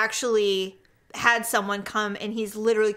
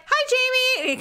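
nerdy voice; 11 semitones higher, slower than usual. Retold or imitated. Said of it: "'cause he's such a nerd".

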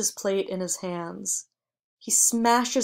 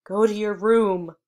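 firm but trembling order, a bit louder; voice shaking; 6 dB louder than usual. A narrator's reading. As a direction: hold it together, barely. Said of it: "his voice shaking".

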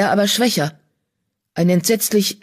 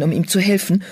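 ordinary delivery

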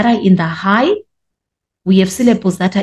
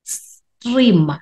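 EXTREME pitched high and drawn out; high stressed syllables; 4 semitones higher than usual. Shown as a demonstration. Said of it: "All of these are high notes".

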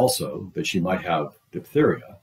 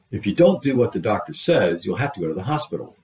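severe admonishing; 2 semitones higher, 3 dB louder than usual. Acted. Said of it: "admonished her severely".

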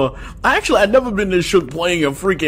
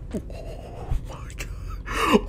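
whispering; 4 semitones higher, 12 dB quieter, slower than usual. Real, not acted. Hiding, terrified.

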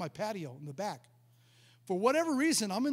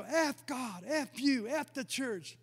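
retold defiant cursing, pitched up; mock cursing outburst; 5 semitones higher, much slower than usual. Preacher quoting the possessed girl cursing the church, mock defiant outburst. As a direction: imitate someone cursing, higher voice.

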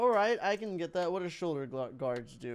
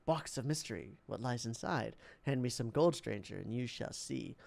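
low, soft, secretive murmur; hushed whispering; 9 semitones lower, 9 dB quieter than usual. Acted. Hooded man tempts a passer-by, hushed and secretive. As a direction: offer it like a hooded stranger's secret. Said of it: "before whispering to you".

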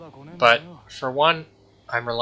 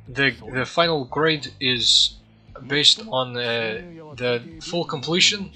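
hesitant imitation of a professor's Turkish accent; attempted Turkish accent. Gamer quoting his professor on grading, attempted Turkish accent. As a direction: feel your way through a shaky attempt at a Turkish accent. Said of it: "let me see if I can do the accent".

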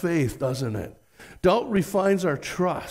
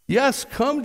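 Jesus inviting; 8 semitones higher than usual. Retold or imitated. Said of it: "Jesus says".

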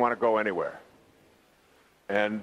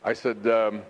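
ordinary talk

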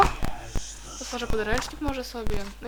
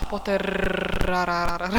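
slow, rolling the r in a hammed-up evil voice; mock evil villain; 4 semitones lower, slower than usual. Gamer teasing Harry as Voldemort, hammed-up evil drawl. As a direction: drag out the name like a cartoon villain, half-joking. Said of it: "Żartuję".

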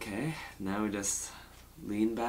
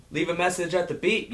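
higher and louder on beep; mock rude shout; 6 semitones higher, 3 dB louder than usual. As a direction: shout Leave a message at the beep. Insulting take vs plain take.

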